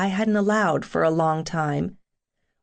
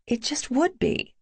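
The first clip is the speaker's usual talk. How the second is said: higher-pitched, mildly stubborn reply; 8 semitones higher than usual. A narrator's reading. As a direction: dig in a little, pitched up. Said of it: "I said stubbornly".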